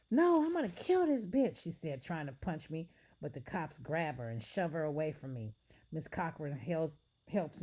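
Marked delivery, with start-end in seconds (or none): 0.1-1.6 high, loud enraged scream; vicious threat; furious scream. Acted. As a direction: scream to kill her. Attacker screaming while punching.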